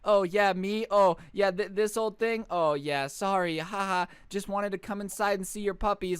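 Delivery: a lightly put-on fake sweet neighbor voice with nervous giggles; mocking Karen. Vlogger mocks his neighbor Karen, a giggly fake innocence. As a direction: play an intruder caught out, giggling it off.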